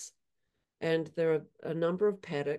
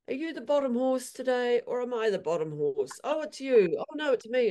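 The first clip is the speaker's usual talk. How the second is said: squabbling horses; 7 semitones higher than usual. Retold or imitated. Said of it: "along the lines of".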